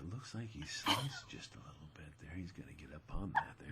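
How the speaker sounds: hushed whisper in golf TV commentator style. Imitating tv golf announcers calling a shot: imitating whispering golf announcers. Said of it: "They're on T V whispering".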